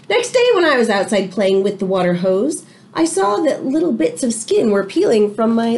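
lively read-aloud to the class; story reading. A narrator's reading. Teacher reading a storybook to her class, lively read-aloud. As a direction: tell it like a picture book to children.

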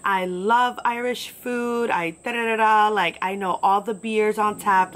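drawn-out, hammed-up enthusiasm; mock excited. Customer boasting on Saint Patrick's Day, mock excited. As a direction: imitate a gushing, proudly Irish customer. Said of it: "so excited to be there".

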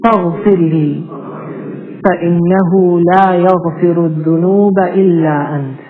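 slow, measured recitation for repeating; leading a slow call-and-repeat dua. Shown as a demonstration. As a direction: recite each phrase slowly so they can follow. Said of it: "I'm gonna say it slowly and you repeat after me".

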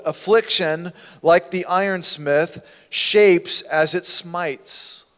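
slow, weighty quote; quoted saying. Shown as a demonstration. Preacher quoting a proverb to the church, slow and weighty. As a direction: let each word land slowly. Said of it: "listen to this quote".

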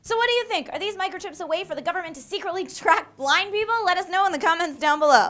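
loud, high call to action; rally the viewers; upbeat host. Real, not acted.

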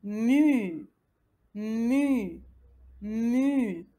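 "Mu" with a long French u; syllable demonstration. Shown as a demonstration. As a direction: model "Mu" as one drawn-out syllable.

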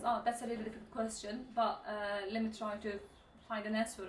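stalling for time with "Ah" and "but, e"; thinking pauses. Shown as a demonstration. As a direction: draw out the fillers and pause mid-sentence, as if searching for an answer. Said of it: "Düşünme araları verebilirsiniz". (düşünme araları vererek)

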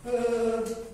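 a second gasp of fright; frightened gasp. Acted. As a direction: gasp again as the scared guards. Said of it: "they were very afraid".

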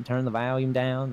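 lightly imitated Southern accent; a touch of Southern twang. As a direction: imitate locals' Southern vowels. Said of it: "everybody down here says volume".

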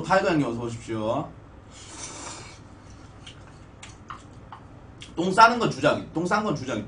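eating between words; talking while chewing. Real, not acted. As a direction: mouth partly full. Seen 1: spoon bites then sips broth from bowl mid-speech.

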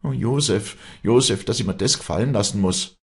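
high, loud lament; loud weeping. A narrator's reading. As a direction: wail the name in distress. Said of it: "weinte laut auf".

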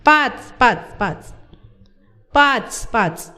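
strained cries under a weight; boy groaning under the rider's weight; straining guess. A narrator's reading. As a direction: gasp it out bent over. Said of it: "तिरपडत भार आवरत म्हणाला".

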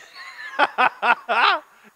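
loud, high burst of laughter; big laugh. Real, not acted. Pastor cracking up at his wife's question, loud laugh.

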